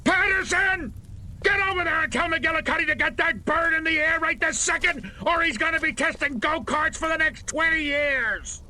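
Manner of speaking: furious general yelling orders; angry orders. Acted. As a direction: chew out the corporal on the spot. General furious at failed demo.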